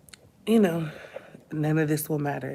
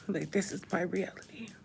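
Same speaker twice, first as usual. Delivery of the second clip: hushed, breaking whisper to herself; half-whispered inner voice; whispered thought; 3 semitones higher, 6 dB quieter than usual. Retold or imitated. Grieving mother whispering her own fear to herself, hushed.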